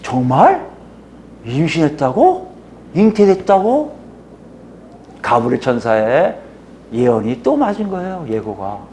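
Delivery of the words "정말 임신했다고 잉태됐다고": lightly acted hushed astonishment; Mary's amazement. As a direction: ask as if you can't believe it. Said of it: "마리아가 그럴 거 아니에요".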